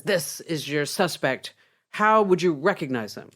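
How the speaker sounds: mildly testy policeman, weighting each word. Acted. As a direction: ask it with patience running out. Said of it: "in a very testy voice".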